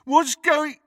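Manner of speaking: high, loud mock shout; mocking mimicry. A narrator's reading. Crabbe mimics Ron's question, mockingly. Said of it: "mimicked Crabbe".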